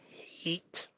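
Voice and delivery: soft whispered hate; whispering the hard word. Real, not acted. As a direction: breathe out hate. Whispered naming.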